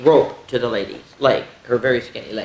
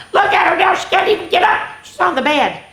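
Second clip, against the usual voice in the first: amazed; 14 semitones higher, 3 dB louder than usual. Real, not acted. Teacher marvels at the picture.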